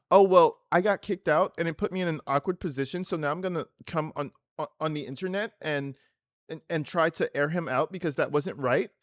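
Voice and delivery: imitating a dramatic LA girl airing someone out; mock LA complainer. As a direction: streamer parodying an LA girl's complaint video. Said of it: "Everybody in L A talks like that".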